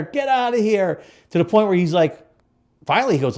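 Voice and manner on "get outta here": high-pitched retold yell; imitated yell. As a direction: yell it like an old-school Italian dealer. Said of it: "this guy would yell and swear".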